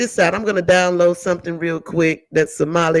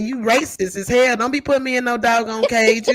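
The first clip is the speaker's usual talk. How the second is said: sassy, high, indignant, fed-up bird voice; 5 semitones higher than usual. Voicing a bird that has a problem with its cage: voicing the bird complaining. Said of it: "that bird got a problem with that cage. Said that".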